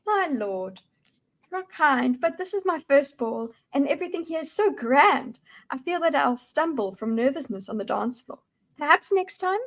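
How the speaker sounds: lightly voiced demure young lady; shy noble lady. Nervous lady at her first ball declining a suitor, demure.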